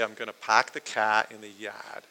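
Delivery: Boston vowels with dropped r's; Boston accent. Shown as a demonstration. Showing how Bostonians give themselves away, light Boston accent. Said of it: "If somebody's from Boston".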